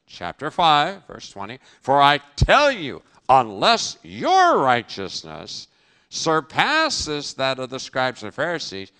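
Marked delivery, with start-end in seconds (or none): 1.8-8.9 loud emphatic quote. Acted. Quoting Jesus emphatically.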